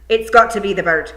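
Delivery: loud, urgent insistence; desperate yell. Acted. Rob Anybody yelling desperately at Daft Willie. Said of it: "yelled Rob Anybody desperately".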